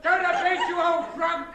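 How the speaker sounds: loud yell from a window; angry shout. Acted. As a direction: shout him down. Neighbour yells from window.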